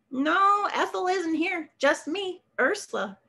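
lightly voiced chatty older woman; Ursula answering. Ursula answers Chuck's call.

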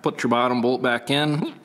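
ordinary delivery

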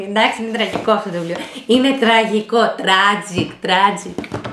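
breaking up laughing at how bad it is; real amused disbelief; laughing despair. Real, not acted. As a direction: laugh through an exasperated verdict. Reader cracks up at the book.

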